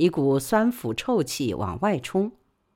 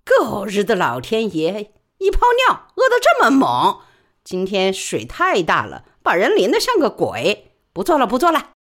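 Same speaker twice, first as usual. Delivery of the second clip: higher, louder cursing; soaked porter cursing the rain, higher and louder; cursing the sky; 4 semitones higher, 4 dB louder than usual. Acted. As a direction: rail at the downpour. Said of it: "见李宝莉就骂天".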